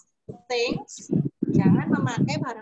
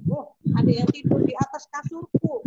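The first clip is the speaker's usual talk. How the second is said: mama bear voice; 4 semitones higher, 3 dB louder than usual. Acted. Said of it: "katanya Mama Bear".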